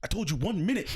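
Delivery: high-pitched exasperated retort, imitated; mock scolding. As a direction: act out snapping at an imaginary pest. Retold scolding of imaginary person.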